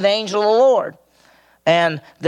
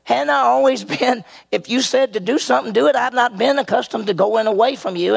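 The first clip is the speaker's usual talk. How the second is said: donkey voice; 8 semitones higher than usual. Acted. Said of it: "so the donkey is saying".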